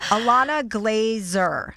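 slow, drawn-out "Glazer" with a z; corrected pronunciation. Shown as a demonstration. Host practises guest's name until approved, careful pronunciation. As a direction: say "Glazer" with great care. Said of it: "That's it".

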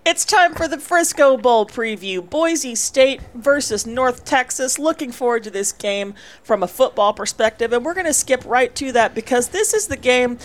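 upbeat radio sponsor read, slowed on the big names; announcer voice. Pretend. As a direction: sell it like a bowl-game promo host. Mock sponsor read and bowl preview.

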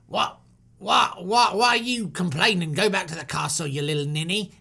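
lightly voiced British guard; mocking guard. Guard sending the prince home, mildly mocking. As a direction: taunt him in a put-on accent. Acted guard taunting Moses.

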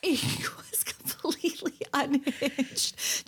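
hushed, slow whisper. Real, not acted. Host whispering to her co-host about the video. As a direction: breathe it out slowly, barely voiced.

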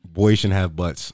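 slow, weighty announcement; slow title read. Shown as a demonstration. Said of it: "That's the name of the episode".

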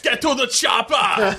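slow, shouted action-hero voice; Arnold Schwarzenegger impression. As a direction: bark it like an action star. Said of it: "Arnold Schwarzenegger, of course".

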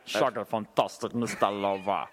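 drawled reggae-star catchphrase. Acted. Co-host shows off his impression of a reggae singer for the host, playful impression. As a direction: announce yourself in a singer's put-on persona. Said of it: "and this is a reggae singer".

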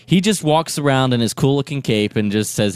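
normal talking voice

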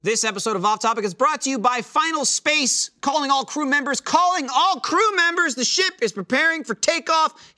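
upbeat sponsor read; announcer voice. Acted.

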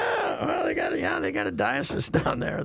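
high, laughing words. Real, not acted. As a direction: giggle through the joke about Catholics. Laughing about the bishop.

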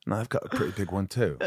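imitated English accent, understated; Gary Oldman English accent. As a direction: drop into an English actor's dry aside. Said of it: "Gary Oldman's voice when I do an English accent".

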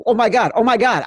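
high, loud giddy oh my God; gushing excitement. Retold or imitated. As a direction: squeal it like a thrilled fan. Gushing notes, mocking past excitement.

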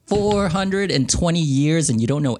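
high, incredulous outburst; mock disbelief. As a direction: tease with exaggerated astonishment at their ignorance. Player ribs centuries-old character's ignorance.

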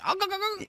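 high mock scream of panic; imitating a scream. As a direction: squeal it like the scared guy. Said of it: "That was his scream".

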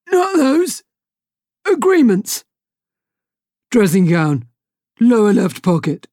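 high, loud, pleading captain; desperate pirate captain. Acted. Hook bargaining while being throttled, high loud pleading. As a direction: bargain for your life. Hook choked, gives directions.

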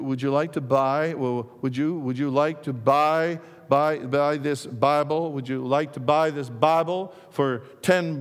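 stuttered sales pitch, repeating every start; stammering. Acted. Louis retells his stuttering sales pitch at the door. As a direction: trip over each phrase, stuck on the words. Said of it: "he stammered".

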